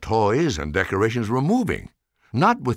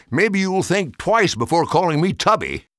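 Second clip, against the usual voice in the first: mildly raised call while running off; shouting back; 7 semitones higher, 3 dB louder than usual. A narrator's reading. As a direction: taunt called back over the shoulder. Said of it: "He shouted back".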